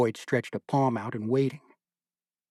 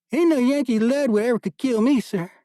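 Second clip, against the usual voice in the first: much higher, louder boastful corporal voice; boasting corporal; 12 semitones higher, 6 dB louder than usual. A narrator's reading. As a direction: brag to the major that no bullet can kill you. Stout corporal boasting to the major.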